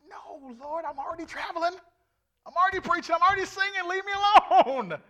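high pitched mock whine, leave me alone; high whiny protest. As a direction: act out a childish refusal, laughing at the close. Pleading with God, retold.

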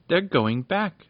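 relieved, pleased exclamation. A narrator's reading. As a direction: Popoff watches the cat fly back, pleased. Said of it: "said Popoff, pleased".

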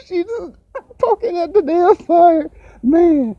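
high, laughing through the words; can't stop giggling as he talks. Real, not acted. Picturing mom poking the fire, laughing.

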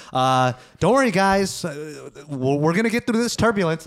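hesitant mock pilot announcement, lightly voiced; unconfident captain. Passenger imitating the captain during rough turbulence, lightly unconfident. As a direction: imitate a captain unsure of his own reassurance. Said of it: "he's not confident either".

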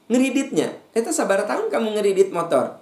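high, loud prying voice; nosy busybody. Acted. Preacher mimics neighbour prying about a motorbike loan, loud and high.

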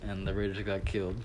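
talking with Tic Tacs in mouth; words round a mouthful of mints; mouth full. Real, not acted. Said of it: "Don't talk with your mouth full".

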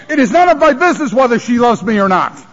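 "It is none of my business" said with a half laugh, half cry; a teary chuckle on "none of my business"; laughing through tears. Real, not acted. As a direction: let the laugh crack into a sob on "It is none of my business". Emotional refrain about his wife.

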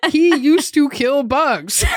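laughing through the words; can't hold back giggles. Real, not acted. Laughing while retelling.

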